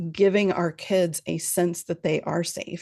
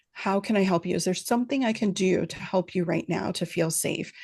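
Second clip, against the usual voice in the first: calm reassuring voice. Shown as a demonstration. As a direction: gently offer help without pressure. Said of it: "I would just say".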